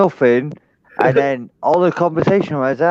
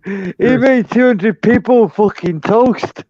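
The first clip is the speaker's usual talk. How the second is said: laughing punchline; 6 semitones higher, slower than usual. Real, not acted. Punchline delivered slowly.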